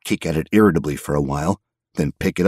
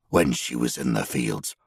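muttered; 6 semitones lower, 5 dB quieter than usual. A narrator's reading. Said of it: "he muttered".

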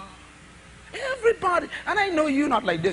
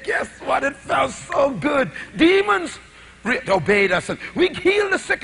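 excited disciples; 3 semitones higher than usual. Retold or imitated. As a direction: burst out like thrilled kids. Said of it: "they were so excited".

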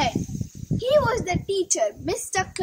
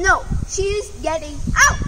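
fast stubborn refusal; 3 semitones higher, faster than usual. Acted. Mister Clapper refusing Missus Pai, fast and firm. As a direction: shut her down fast. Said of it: "Mister Clapper said".

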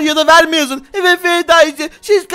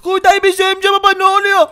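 put-on lightly raised child voice, relieved and grateful; a spider boy thanking his dad, a little higher; spider kid; 5 semitones higher than usual. (hafif ince sesli örümcek çocuk)

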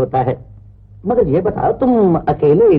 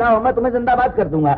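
excited promise; 5 semitones higher, faster than usual. Acted. Cheering up the stranger.

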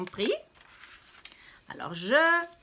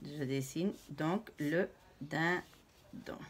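doux et lent en dessinant; 4 semitones lower, 6 dB quieter, slower than usual. Real, not acted. Commente son dessin.

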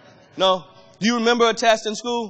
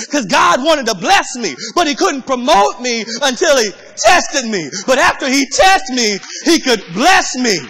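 fervent preaching. Acted. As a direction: build the testimony to a shout. Testimony preached at full force.

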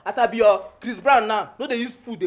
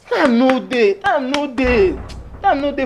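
louder; 3 semitones higher, 4 dB louder, slower than usual. Acted. Louder insistent repeats.

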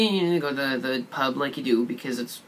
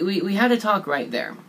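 usual speaking voice

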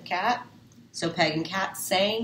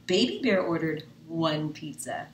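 usual speaking voice

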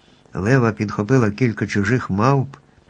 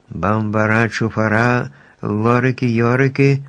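magic incantation. A narrator's reading. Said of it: "почала вимовляти чарівні слова".

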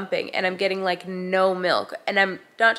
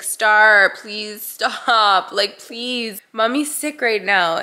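retold plea, opening loud on the name; exasperated pleading; 4 dB louder, much slower than usual. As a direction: reenact begging a crying child to stop. Tired mom pleading with crying child.

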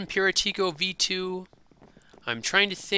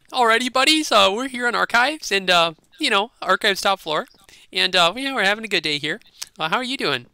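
video intro voice; 4 semitones higher, 4 dB louder than usual. Acted. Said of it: "I'm talking normally".

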